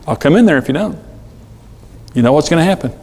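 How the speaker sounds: controlled, matter-of-fact parent; calm warning, no yelling. Acted. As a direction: state the consequence without raising your voice. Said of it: "I don't yell".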